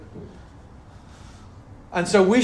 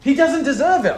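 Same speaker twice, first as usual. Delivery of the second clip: loud, fervent preaching; real passion rising in the voice; passionate; 6 semitones higher, 5 dB louder than usual. Real, not acted. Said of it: "I'm sorry, I'm getting passionate".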